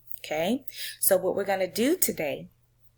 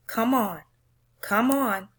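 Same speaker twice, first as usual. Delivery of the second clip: urging; 4 semitones higher than usual. Acted. Teacher voicing the crowd in the poem, eager urging. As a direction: egg the runner on from the stands.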